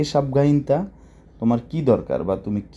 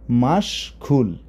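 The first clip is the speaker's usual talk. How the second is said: slow careful word; much slower than usual. Shown as a demonstration. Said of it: "তাহলে মাশগুল মানে কি?".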